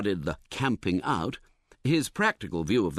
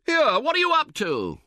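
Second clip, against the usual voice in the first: much higher, louder indignant call; calling out angrily; 4 dB louder than usual. A narrator's reading. Camper shouting at his tentmate, high and loud. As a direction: shout across the tent in annoyance. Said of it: "you call out".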